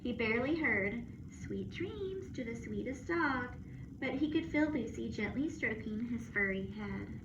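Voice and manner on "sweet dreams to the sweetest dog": slow, tender bedtime words; soft goodnight. Acted. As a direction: lull the dog to sleep. Lucy's goodnight heard sleepily.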